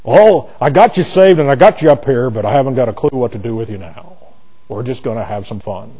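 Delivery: God voice. Pretend. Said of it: "That's my God voice".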